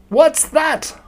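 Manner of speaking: sudden high alarmed squeak; startled cry. A narrator's reading. Piglet startled by the crash, high squeak. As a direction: jump at the noise, high and sharp.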